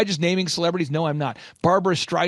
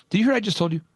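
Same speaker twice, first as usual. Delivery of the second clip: pointed, challenging question; a touch of antagonism; adversarial coach; 3 semitones higher, much faster than usual. Retold or imitated. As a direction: lightly imitate an intense coach. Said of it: "almost like an antagonistic, adversarial, intense coaching".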